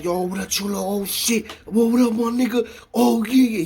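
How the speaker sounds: high-pitched, hyped-up greeting in retelling; excited shout-out. Retold or imitated. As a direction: imitate a friend calling out as he spots you. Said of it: "shouting me out".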